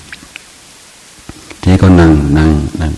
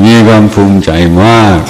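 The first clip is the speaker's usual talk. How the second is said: proud excitement; 4 semitones higher, 5 dB louder than usual. Real, not acted. Recalling pride, laughing.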